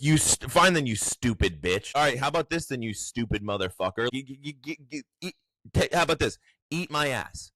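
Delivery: high, hammed-up defiant insults; mock lawyer tantrum. Lawyer insulting the judge in court, hammed-up high defiance. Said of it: "And she was just like".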